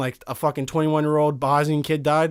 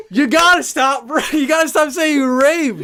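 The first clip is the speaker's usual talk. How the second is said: laughing protest; 8 semitones higher, 5 dB louder than usual. Real, not acted. Friend protests crude joke.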